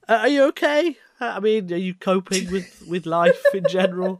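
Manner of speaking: concerned. Real, not acted. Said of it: "That sounded like".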